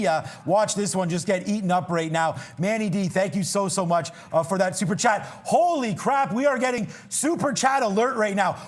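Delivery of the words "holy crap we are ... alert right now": excited. Real, not acted. Super chat alert surprise.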